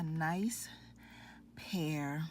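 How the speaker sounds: slow hushed whisper. Real, not acted. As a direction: whisper it slowly as a reveal. Showing finished earrings, whispered.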